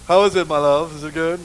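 a hint of a courtly husband checking on her; attentive husband. Husband voiced in story.

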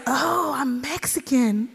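slow and soft, the penny dropping; quiet, stunned realization; slow dawning realization. Retold or imitated. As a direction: let it sink in as you say it. When I realized.

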